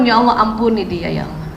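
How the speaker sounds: modelling a soft plea for a husband's forgiveness; soft prayer. Shown as a demonstration. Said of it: "Mohonkan ampun".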